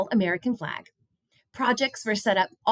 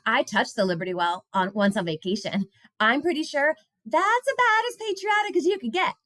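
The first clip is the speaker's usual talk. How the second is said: a hint of a high, proud child voice; young girl, lightly bragging; lightly voiced girl Hannah; 6 semitones higher than usual. A narrator's reading. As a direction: read it as a girl boasting a little. Reading a child voice.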